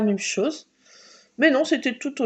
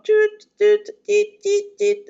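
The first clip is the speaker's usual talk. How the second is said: high imitated warning beeps; beeping alarm; 10 semitones higher, 5 dB louder than usual. Imitating the dashboard alarm, high beeps. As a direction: beep like a car alarm going off. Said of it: "Avec une alarme".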